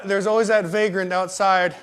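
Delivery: ordinary talk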